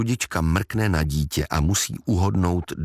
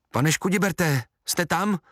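higher, hesitant calling out; timid call; 9 semitones higher than usual. Acted. Sudíček calls through the cellar door to Škudibert, high and unsure.

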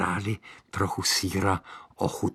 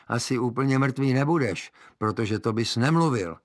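witch voice; 5 semitones higher, 3 dB louder than usual. Acted. Witch reasons with boy.

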